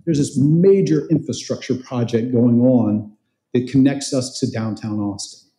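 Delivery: normal talking voice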